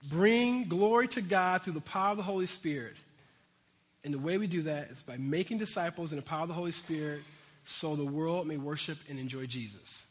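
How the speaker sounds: deliberate, carefully spaced phrases; clear and slow. Real, not acted. Preacher stating the church's mission to his congregation, clear and slow. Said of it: "say this really clear and slow".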